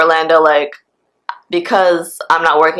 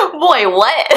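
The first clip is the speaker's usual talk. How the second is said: high-pitched shout through laughter; incredulous laughing; 8 semitones higher than usual. Real, not acted. Storyteller reacting to friend's remark about making friends, incredulous laughing. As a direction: burst out laughing in real disbelief.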